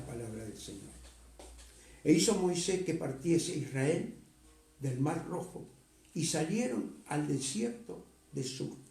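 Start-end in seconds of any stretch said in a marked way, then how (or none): 2.0-8.8 scripture reading. Acted. Reads scripture aloud to congregation.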